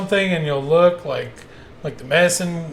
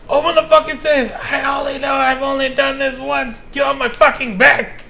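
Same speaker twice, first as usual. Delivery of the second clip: much higher, shouted movie-robber voice; movie shout impression; 9 semitones higher than usual. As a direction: yell it like the gunman in the movie. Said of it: "it's like the end of Ridgemont High".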